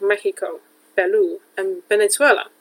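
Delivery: "Mexico, Peru, and Venezuela" said the Spanish way; country names "Mexico, Peru, and Venezuela" pronounced as in Spanish; Spanish pronunciation. Shown as a demonstration. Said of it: "countries' names in the Spanish way".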